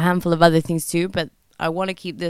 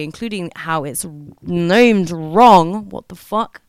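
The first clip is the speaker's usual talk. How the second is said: real exasperation, loud and drawn out on "named wrong"; emotional outburst; 6 dB louder, slower than usual. Real, not acted. Podcaster objecting to how ADHD is named, emotional and exasperated. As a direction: let the emotion burst out, leaning hard on the complaint. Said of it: "there's a lot of emotion in there".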